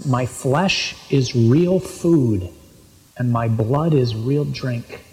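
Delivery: slow, weighted scripture quote; measured, deliberate saying of Jesus; solemn quotation. Retold or imitated. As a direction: lay it out slowly, phrase by phrase.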